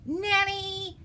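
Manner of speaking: high, loud call for help; screamed call. A narrator's reading. Tutor screaming for Nanny, high loud call. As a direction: holler the name way up high. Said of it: "and then he screams".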